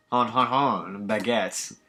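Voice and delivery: a light mock French accent, teasing; lightly hammed French cliché accent. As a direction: tease with a cheesy French accent hon hon hon. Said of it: "my favorite Frenchman".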